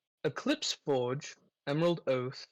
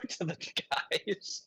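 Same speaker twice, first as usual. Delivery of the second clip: muffled behind a hand; hand over mouth; 5 semitones higher than usual. Pretend. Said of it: "put my hand over my mouth and talk to my shoulder".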